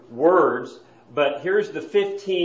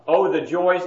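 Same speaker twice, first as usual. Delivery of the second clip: mock exclaim; 4 semitones higher, 4 dB louder than usual. Shown as a demonstration. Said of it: "it gets even worse".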